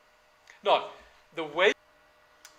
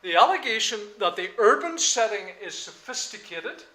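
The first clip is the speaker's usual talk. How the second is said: emphatic; 5 semitones higher, 11 dB louder than usual. Shown as a demonstration.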